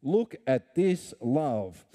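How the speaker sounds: excited apostle calling out; passionate exclamation. Retold or imitated. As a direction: invite them to look in wonder. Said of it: "passionate tone in his voice".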